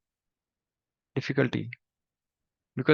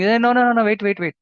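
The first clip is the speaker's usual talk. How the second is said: loud; 6 semitones higher, 5 dB louder, faster than usual. Acted. Doctor stops the rushing villagers.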